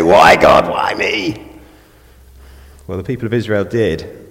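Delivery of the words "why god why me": hammed-up wail of a complaining believer; mock cry to God. Preacher voicing a grumbling Christian, in a mock anguished cry. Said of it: "You don't say".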